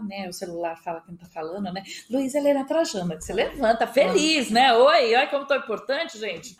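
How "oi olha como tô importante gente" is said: mock self-important. Mock pride at phone call.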